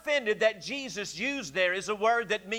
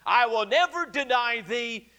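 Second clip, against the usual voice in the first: bold, boastful vow; mildly boastful declaration, stressing each never; imitating a man sure of himself; Peter. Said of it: "so boldly and boastfully said".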